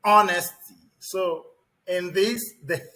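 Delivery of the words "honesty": Honesty with no H sound, said ON-esty; silent H honesty. Shown as a demonstration. Teacher showing the class the silent H. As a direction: drop the H in Honesty. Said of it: "the H is silent".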